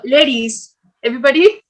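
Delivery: ladies drawn out slowly as a cue; slow drawn-out game call; slow demo call. Shown as a demonstration. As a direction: call the word ladies slowly for the group to copy. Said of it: "to do a demo".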